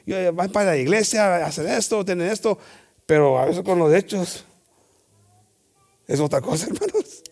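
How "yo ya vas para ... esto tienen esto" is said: high, dismissive put-on whine; mock the churchgoer's excuses; mimicking people who brush off churchgoing, high and dismissive; mocking whiny voice. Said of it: "muchos dicen".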